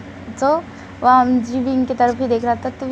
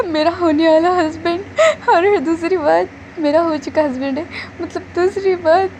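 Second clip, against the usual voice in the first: mock wail; 4 semitones higher than usual. Bride wailing about child husband.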